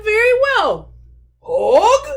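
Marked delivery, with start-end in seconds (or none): 1.4-2.1 eager call. Acted. Bear runs to mommy.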